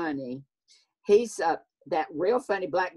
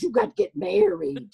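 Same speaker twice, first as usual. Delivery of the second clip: much higher, scolding Southern mama; mock a nagging mother, pitched way up; 14 semitones higher than usual. Fancy mother to her unmarried daughter, high Southern nagging. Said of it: "She goes".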